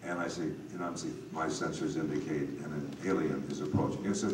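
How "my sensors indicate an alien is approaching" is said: Scourby-style narrator. Retold or imitated. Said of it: "I'm doing my best Scourby imitation".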